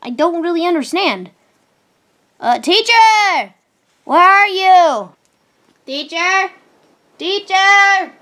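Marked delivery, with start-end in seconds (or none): 2.4-8.1 calling out. Acted. Student calling for missing teacher.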